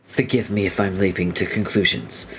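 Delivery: formal, tactful question; hesitant engineer. Acted. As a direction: tread politely round an awkward subject. Voices hesitant engineer character.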